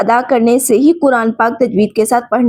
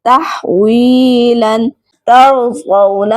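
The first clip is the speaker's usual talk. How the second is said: slow, drawn-out tajweed recitation of each word; Quran recitation; much slower than usual. Shown as a demonstration. Teacher reciting Quran examples for students, slow recitation. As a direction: chant the verse slowly as in tilawat.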